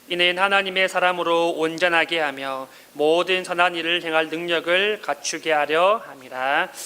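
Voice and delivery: measured, even-toned Bible reading; scripture reading. A narrator's reading. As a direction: read the verses out evenly and formally. Reads the scripture passage aloud. (차분하고 고른 어조의 성경 봉독)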